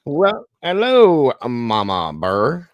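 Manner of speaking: loud, drawn-out Cockney greeting; hammed-up Cockney, high and slow; mock Cockney accent. Greeting co-host Mama Burr in playful Cockney. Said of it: "Is that a Cockney accent?".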